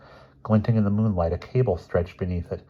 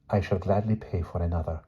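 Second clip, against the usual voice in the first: earnest; 5 dB quieter than usual. A narrator's reading. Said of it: "said the boy earnestly".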